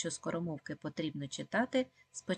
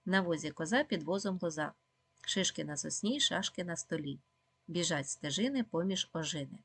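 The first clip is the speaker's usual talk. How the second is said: a quicker tongue-twister reading; faster. Shown as a demonstration. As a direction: pick up the pace of the rhyme. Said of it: "Тепер читаємо швидше".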